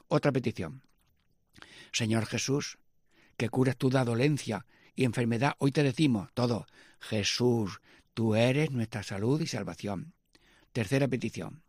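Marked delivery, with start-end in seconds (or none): 1.9-10.1 measured prayer leading; prayer petition. Acted.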